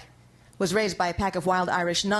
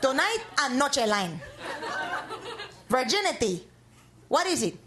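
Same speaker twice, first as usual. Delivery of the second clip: mock a dramatic evening news intro; news host spoof; 4 semitones higher than usual.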